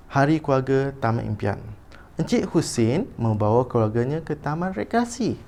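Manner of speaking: teacher's clear storybook reading; intoned read-aloud for pupils to copy; expressive model reading. Shown as a demonstration. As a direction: read a school passage aloud with lively intonation. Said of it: "membaca dengan intonasi".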